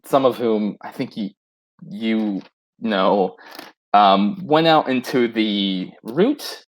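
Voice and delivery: slow, low, talking around a spoon; spoon in mouth. Acted. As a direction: speak with a spoon in your mouth. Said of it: "Mikael goes".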